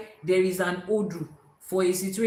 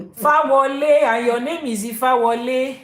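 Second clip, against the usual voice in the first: laughing; 5 semitones higher, 10 dB louder, slower than usual. Real, not acted. Amused at guest's name.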